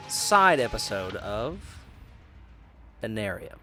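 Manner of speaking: normal talking voice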